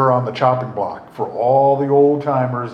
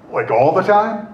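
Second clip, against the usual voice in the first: incredulous; 3 semitones higher, 4 dB louder than usual. Retold or imitated. Incredulous retort to the group.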